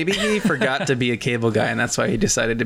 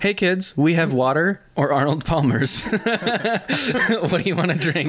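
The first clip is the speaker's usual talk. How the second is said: put-on cheerful staffer to children; 4 semitones higher, slower than usual. Acts out hospital staff offering drinks.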